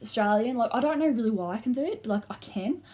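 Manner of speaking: lightly put-on Australian accent with lilting pitch. Shown as a demonstration. Showing viewers the switch from Essex, Australian accent. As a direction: slide into Australian mid-sentence. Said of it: "I go from Essex to".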